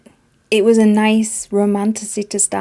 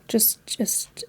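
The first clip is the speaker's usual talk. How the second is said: whisper; 11 dB quieter than usual. Real, not acted. Speechless with annoyance.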